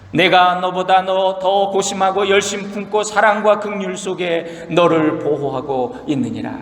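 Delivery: a hint of weary divine authority; God speaking. God addressing Job, lightly voiced solemn authority. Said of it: "하나님의 말씀이에요".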